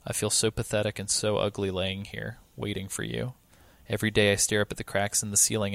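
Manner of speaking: soft, tender letter reading; dramatic reading. Acted. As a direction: read it softly, like a dying wife's letter. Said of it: "I'll tackle this dramatic reading".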